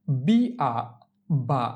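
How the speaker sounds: "বি আ", pause, then blended "বা"; syllable demo. Shown as a demonstration. Teacher shows learners consonant plus vowel, spelling-out demo. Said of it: "তার উচ্চারণ কিভাবে হয়".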